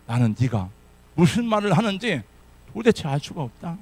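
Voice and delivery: loud indignant denial; Peter denying. Acted. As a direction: protest ignorance forcefully.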